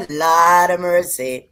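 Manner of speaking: slow mock Jamaican patois; a light, hammed-up Jamaican patois try; Jamaican patois accent. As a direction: drawl it in a joking Jamaican patois. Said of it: "how was that patois accent".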